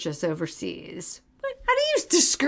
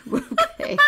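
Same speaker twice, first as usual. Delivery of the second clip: surprised okay. Real, not acted. Reacting to flowery Forbes text.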